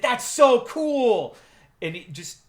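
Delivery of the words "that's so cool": much higher, louder, slow gushing; imitating a boss thrilled like a child; childlike wonder. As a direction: gush with childlike delight. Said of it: "overcome with that childlike sense of wonder".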